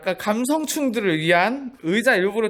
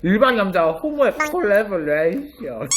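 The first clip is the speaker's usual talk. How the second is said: catchphrase delivery. Shown as a demonstration. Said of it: "내가 요새 미는 유행어잖니".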